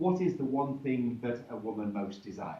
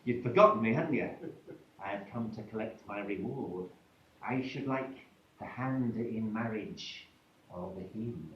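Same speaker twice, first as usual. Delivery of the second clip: put-on old hag=104; 3 semitones lower than usual. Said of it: "the ugly old hag".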